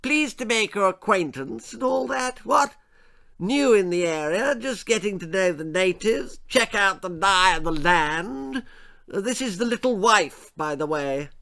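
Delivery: high, loud upper-class bluster with barking "What?"; pompous toff sizing up the natives; hunting lord introducing himself; blustering posh lord. A narrator's reading. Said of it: "boomed the Lord".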